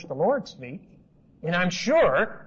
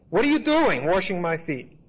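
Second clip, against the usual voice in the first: protesting Peter. Retold or imitated. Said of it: "he replied".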